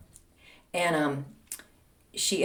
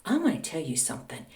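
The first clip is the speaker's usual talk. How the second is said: light Southern lilt, softer; Southern accent; 2 semitones lower, 6 dB quieter than usual. Retold or imitated. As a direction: imitate mom's slight Southern accent. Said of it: "little lilt of a Southern accent".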